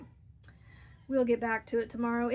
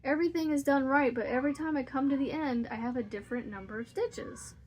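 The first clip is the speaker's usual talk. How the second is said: frustrated daughter; 4 semitones higher than usual. Retold or imitated. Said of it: "But she's like".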